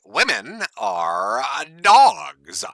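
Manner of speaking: slow, drawn-out mock lecture in lightly voiced Coach Red Pill; lightly voiced pickup coach lecturing slowly; imitating Coach Red Pill. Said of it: "Coach Red Pill's like".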